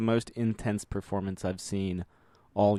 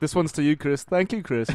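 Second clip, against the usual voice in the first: higher-pitched put-on British toast; mock British accent; 7 semitones higher, 4 dB louder than usual. Two Chris Nolans toasting each other, mock British accent. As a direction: play two polite Brits in British accents. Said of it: "we're both British".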